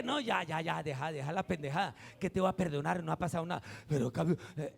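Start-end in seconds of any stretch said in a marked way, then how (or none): 0.0-3.6 casual dismissal. Pretend. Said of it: "Uno dice".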